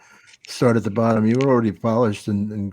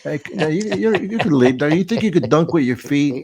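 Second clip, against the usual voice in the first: higher-pitched mock heckle, retold; wise ass; 3 semitones higher than usual. Valet teasing a ballet dancer at the River Cafe, wise-ass. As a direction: imitate your own smart-aleck needling. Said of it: "I was such a wise ass".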